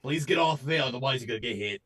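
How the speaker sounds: put-on old lady making a mall announcement; creaky old lady on the tannoy; old woman. Shown as a demonstration. Old woman on a mall PA warning shoppers off the ice, in an old lady voice. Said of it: "old woman, that's over a mall P A".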